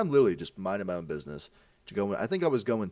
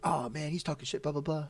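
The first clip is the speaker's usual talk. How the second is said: put-on wimpy kid; 6 semitones higher, 4 dB quieter than usual. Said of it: "he was a bitch".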